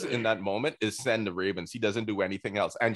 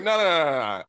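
higher, louder string of refusals; playful imitation of Daemon refusing; excited no no no; 4 semitones higher, 4 dB louder, faster than usual. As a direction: brush him off eagerly, voice up and loud. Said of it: "he's just like".

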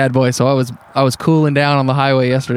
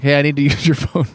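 matter-of-fact mock demand; imitated blunt demand. Stranger walking up to demand a phone, imitated blunt demand. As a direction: state it as an entitled demand, mimicking. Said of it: "the energy of walking up and just being like".

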